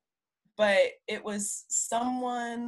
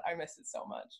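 breathy wistful whisper; 10 dB quieter than usual. Real, not acted. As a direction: let it fall to a whisper. Longing for campus at sunset.

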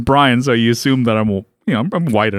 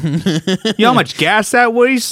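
slow, higher mock grievance; whiny client impression; 5 semitones higher, slower than usual. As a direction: drag out the complaint in character. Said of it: "How come you talk like that?".

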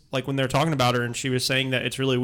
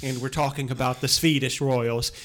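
put-on Swedish accent. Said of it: "I am Sweden Frugertingen".

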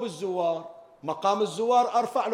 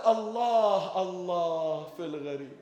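pleading lament; slower than usual. Retold or imitated. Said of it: "ولهذا قالت". (رجاء حزين هادئ يخفت في الغريب)

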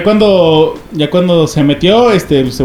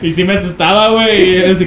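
ordinary delivery

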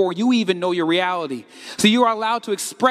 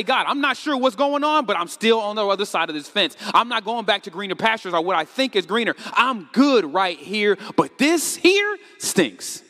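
honest prayer; 2 semitones higher than usual. Shown as a demonstration. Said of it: "You are allowed to say".

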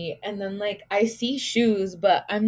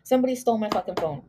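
retold panic; much faster than usual. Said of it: "I started freaking out".

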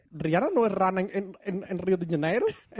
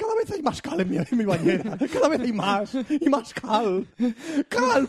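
mock ad lament.

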